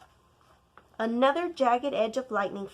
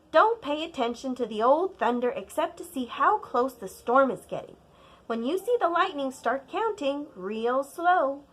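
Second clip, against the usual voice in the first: lightly voiced grandmother, louder, patient; grandma teaching; 2 semitones higher, 4 dB louder than usual. Grandma teaching child to count storms, patient. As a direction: explain it like a patient old grandma.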